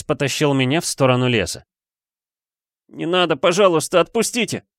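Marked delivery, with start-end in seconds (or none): 2.9-4.6 put-on high, frightened wail of a boy; wailing plea. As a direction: howl for mercy. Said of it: "заголосил я".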